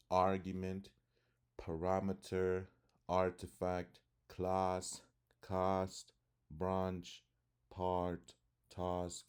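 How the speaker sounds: British-style "ah" in "task" and "master"; broad A. Shown as a demonstration. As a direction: open "ah" in "class", "branch", "path". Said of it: "The broad A, A sound".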